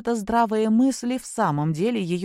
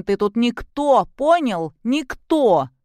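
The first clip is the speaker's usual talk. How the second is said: put-on slower, louder, high drunken shout of никто; angry shout; 5 semitones higher, 6 dB louder, slower than usual. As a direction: hammer никто home in a drunken rage. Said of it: "зло сощурив глаза".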